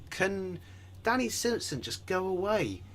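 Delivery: high, exasperated plea; annoyed. Real, not acted. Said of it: "so annoyed".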